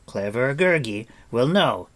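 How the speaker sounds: a small creature boasting brightly; eager creature cry; Gurgi creature cry. A narrator's reading. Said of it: "he cried".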